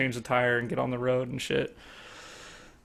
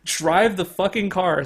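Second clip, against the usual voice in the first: retold yell; 5 semitones higher than usual. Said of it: "I'm like".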